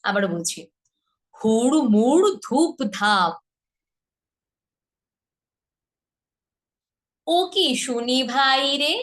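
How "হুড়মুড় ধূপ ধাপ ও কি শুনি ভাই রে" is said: slow, theatrical lines for students to repeat; slow teaching recitation; dramatic rhyme recitation. Acted. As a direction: recite each line with drama for them to echo.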